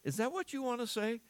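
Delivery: voicing Paul's hurt appeal, rising to a pleading question. Paul pleading with the church in a hurt, rising voice. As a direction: ask it as a wounded apostle. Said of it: "He would be saying".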